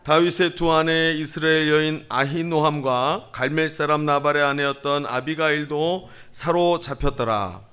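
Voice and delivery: measured, level reading voice; scripture reading. A narrator's reading. Pastor leads congregation in responsive Bible reading, measured. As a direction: read it out evenly for responsive reading.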